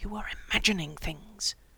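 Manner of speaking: furious whisper, whispering fiercely. Narrator voicing a woman alone in an empty passageway, to herself, furious whisper. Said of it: "she whispered furiously to herself".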